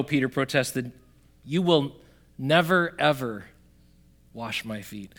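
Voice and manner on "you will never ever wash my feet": "never" and "ever" set apart by pauses; emphatic refusal. Acted. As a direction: protest with "never" picked out, then "ever" on its own. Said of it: "there's an emphatic in this statement".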